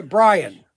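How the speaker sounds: Brian read out loud and punchy; stress on Brian. Real, not acted. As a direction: hit "Brian" hard as a one-word opening. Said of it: "emphasize the word Brian".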